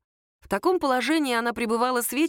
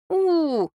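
long whiny groan, pitched up; a loud bored teenage groan; 9 semitones higher, 4 dB louder than usual. A narrator's reading. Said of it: "простонал пацан".

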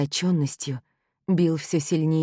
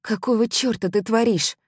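hoarse voice; 7 semitones higher, 3 dB louder than usual. A narrator's reading. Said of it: "охрипшим голосом спросила я".

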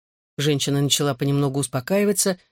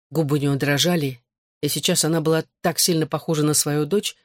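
ordinary delivery, nothing marked

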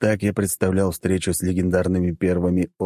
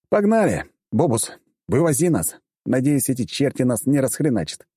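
rallying shout; 7 semitones higher than usual. A narrator's reading. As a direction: pump up the crew. Rallying the crew to go.

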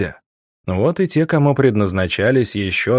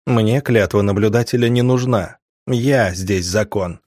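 growled. Acted. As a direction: growl it through bared teeth. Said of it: "прорычал в ответ".

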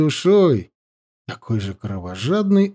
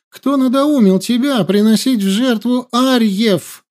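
shouting; 9 semitones higher than usual. A narrator's reading. Princess accusing the chief of sacrifices, shouting higher. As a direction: hurl the accusation at him. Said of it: "закричала Аюна".

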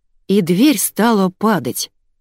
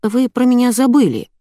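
small, higher-pitched reminder; squeaky; 6 semitones higher, 3 dB louder than usual. A narrator's reading. Trapped narrator reminding the others, squeaking. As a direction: pipe up in a squeak. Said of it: "пискнула я".

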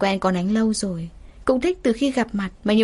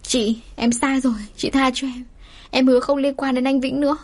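crying out in pain; 5 semitones higher than usual. Acted. Mistress being beaten, crying out her apology to the wife. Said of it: "đau đớn gào lên".

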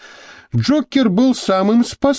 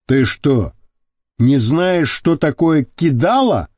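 incredulous drawl; slower than usual. Acted. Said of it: "недоверчиво протянул он".

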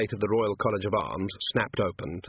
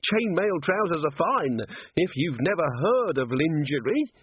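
slow, higher-pitched bitter grievance; 7 semitones higher than usual. A narrator's reading. Cheery complaining to Angua about dwarf clothing, bitter. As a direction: spell out the injustice slowly. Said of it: "said Cheery bitterly".

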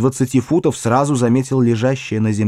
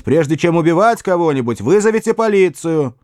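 shouting after him; 6 semitones higher than usual. A narrator's reading. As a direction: yell it down the path. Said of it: "Я крикнул вслед".

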